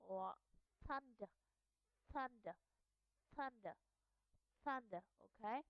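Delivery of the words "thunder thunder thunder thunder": "thunder" opening on a voiceless TH; unvoiced TH. Shown as a demonstration. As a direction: demonstrate "thunder" with an airy TH, no voicing. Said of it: "will be pronounced as unvoiced sound".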